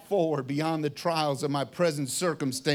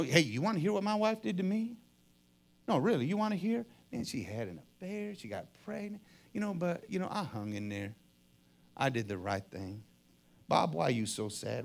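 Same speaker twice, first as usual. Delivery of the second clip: soft, confiding tale of woe, sinking lower; self-pitying; 3 semitones lower, 6 dB quieter, faster than usual. Acted. Victim tells everyone about his wife, self-pitying. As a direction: play the victim, quietly fishing for pity.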